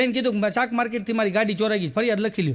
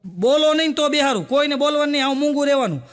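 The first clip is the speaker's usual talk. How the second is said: mock scolding son; 4 semitones higher than usual. Son scolding parents in helicopter.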